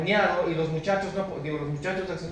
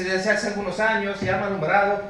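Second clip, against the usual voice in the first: louder, mildly desperate answer; understated desperation in a raised voice; retold desperation; 2 semitones higher, 5 dB louder than usual. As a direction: quote a desperate father, voice raised a little. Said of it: "el Señor ya totalmente desesperado dice".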